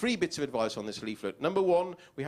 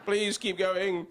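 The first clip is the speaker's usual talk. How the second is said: higher, slow begging; pleading with car; 5 semitones higher, much slower than usual. Acted. Driver begs the car Pierre to keep going, slow and pleading. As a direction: coax the car onward.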